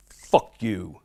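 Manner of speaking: "Fuck you." with a punched F sound; emphasis on the F. Retold or imitated. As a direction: hit the F of "Fuck" hard. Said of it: "with the emphasis on that F".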